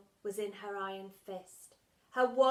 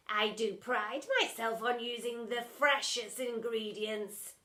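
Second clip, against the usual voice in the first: 1 announced; 4 dB louder than usual. Acted. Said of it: "announced Splat".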